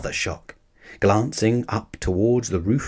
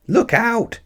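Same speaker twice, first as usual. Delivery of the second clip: frantic shout; 11 semitones higher than usual. A narrator's reading. Cyclist on the platform warns the bear, shouting. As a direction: yell it in a panic. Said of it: "shouted the man".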